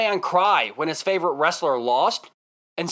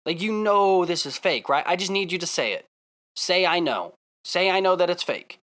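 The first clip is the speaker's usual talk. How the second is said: kindly. Retold or imitated. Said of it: "turn to the guy so kindly".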